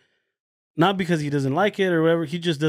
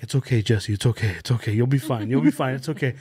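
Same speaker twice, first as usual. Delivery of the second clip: imitating soothing friend; 4 semitones lower than usual. Jay soothing coughing Jesse.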